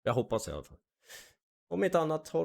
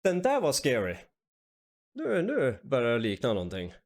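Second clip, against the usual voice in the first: excited; 2 semitones higher, 5 dB louder than usual. Real, not acted. After scary clip.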